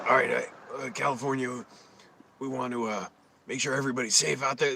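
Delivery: a lightly voiced Newsom, halting with uh; mimicking the governor's hesitant press talk; Gavin Newsom impression. Vlogger mocks Newsom's pandemic address, lightly voiced halting politician. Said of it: "That's how he talks".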